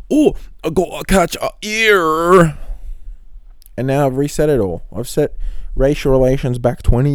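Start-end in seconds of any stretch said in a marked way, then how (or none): 0.1-2.6 mock Chinese accent, high, loud and slow; hammed-up Chinese accent on purpose; funny Chinese accent. Mocking his Chinese boss in a funny Chinese accent. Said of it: "Now I'm gonna do a funny accent".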